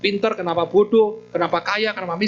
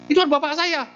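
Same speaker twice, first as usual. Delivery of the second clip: a furious son confronting the monk; angry demand; 10 semitones higher than usual. Acted. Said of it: "Ngamuk dia, marah besar dia". (marah besar, suara tinggi dan keras)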